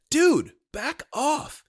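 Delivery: hammed-up terrified friend; panicked. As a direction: shriek him away. Ted terrified of the knives.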